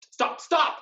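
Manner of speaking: high, loud panicked cry; panicked plea. Acted. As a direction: beg them to stop, terrified. Villain begs in panic.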